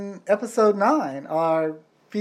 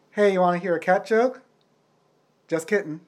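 telling a dad joke; faster than usual. Pretend. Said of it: "dad joke time".

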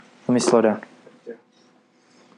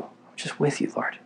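"I'm just with you" breathed, barely voiced; awed whisper; 3 semitones higher, 9 dB quieter than usual. Worshipper whispering to Jesus in awe, whispered. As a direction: whisper it softly, as if close to him. Voicing intimate prayer to Jesus.

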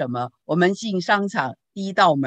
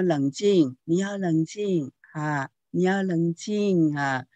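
calm soothing. Shown as a demonstration. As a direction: settle a child gently. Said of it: "你看那个声音".

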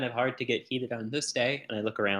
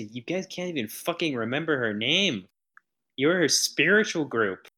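angry rant; 4 semitones higher than usual. Acted. Character berating cult at funeral.

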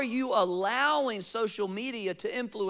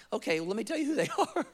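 eager reply; 3 dB quieter, much faster than usual. Retold or imitated. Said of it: "he responds like".

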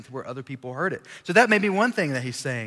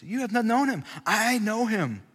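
stern Jesus; 7 semitones higher than usual. Retold or imitated. Jesus rebukes the Jews.

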